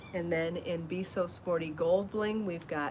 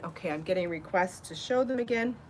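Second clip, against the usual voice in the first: out of breath. Real, not acted. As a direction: speak while still catching breath. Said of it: "I'm still out of breath".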